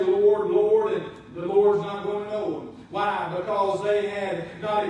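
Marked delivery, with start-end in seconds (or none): 0.0-0.9 pleading. Retold or imitated. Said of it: "they're gonna say".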